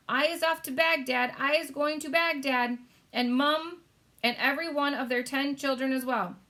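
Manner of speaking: high, loud brutish giant; shouting giant. Acted. Flesh Lump Eater shouting at the BFG, high and loud. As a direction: bellow it out.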